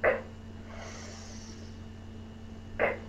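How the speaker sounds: K, then a whispered s, split apart; sounds of X. Shown as a demonstration. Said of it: "listen to the two sounds".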